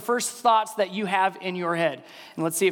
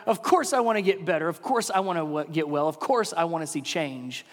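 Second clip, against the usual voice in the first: emphatic answer that fades down; emphatic resounding yes; 3 semitones higher than usual. Retold or imitated. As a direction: burst out with an eager yes. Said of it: "an emphatic, resounding".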